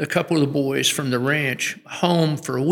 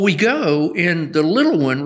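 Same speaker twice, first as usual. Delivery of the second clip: ordinary talk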